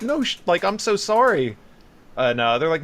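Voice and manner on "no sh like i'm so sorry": higher, a touch loud, over-apologetic; mildly hammed-up apology; flustered apology. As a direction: gush sorry like a mortified parent. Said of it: "And I'm like".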